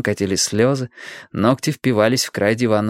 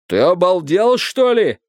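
indignant, high-pitched outburst; heated, incredulous protest; flaring up; 7 semitones higher, 4 dB louder, slower than usual. A narrator's reading. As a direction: explode in disbelief. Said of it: "взвился Страйк".

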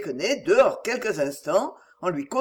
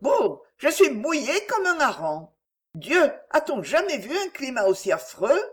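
gay ironic complaint; 6 semitones higher than usual. A narrator's reading. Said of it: "dit avec un rire gai et une tristesse ironique".

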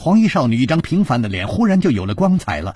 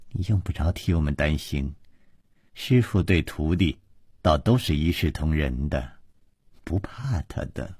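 soft, low, smiling reassurance; sweetly smiling; 6 semitones lower, 7 dB quieter than usual. A narrator's reading. Girl telling him not to worry about them, sweetly. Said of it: "忽然嫣然笑道".

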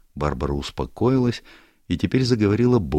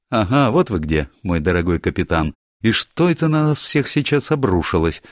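higher, brighter-voiced girl, teasing; lively young woman; 5 semitones higher, 4 dB louder than usual. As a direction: play Barbara breezing into the room, higher and louder. Barbara voiced by narrator.

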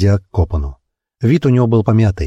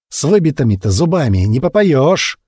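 higher mocking yell at the beaten old man; jeering yell; 6 semitones higher than usual. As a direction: crowd member jeering at the beaten steward, yelling. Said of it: "заорал кто-то".

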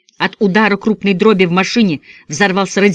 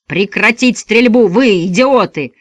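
slow, furious bark louder over the gunfire; barked order; 4 semitones higher, 4 dB louder, slower than usual. A narrator's reading. Father barks at his sons to cease fire, furious. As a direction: roar it over the shooting. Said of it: "рявкнул Большое Дуло".

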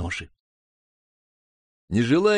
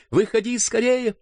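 higher, urgent call; urgent cry; 12 semitones higher than usual. Acted. Brother cries to sister to leave the pool, higher and urgent. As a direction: order her out of the water. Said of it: "вскричал я".

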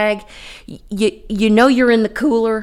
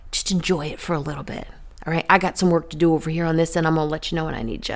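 casual voice of God; 4 semitones lower, 4 dB quieter, much faster than usual. Acted. Voicing God, casual and quick.

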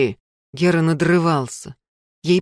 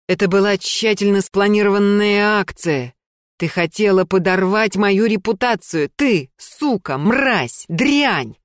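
furious insults; 3 semitones higher than usual. Acted. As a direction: hurl the insults at her. Гера оскорбляет Лену.

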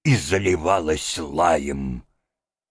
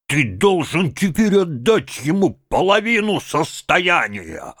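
raised, heated voice of a bully demanding money; angry shouting; 6 semitones higher, 4 dB louder than usual. A narrator's reading. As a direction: lay into him, bullying and loud. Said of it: "кричите так".

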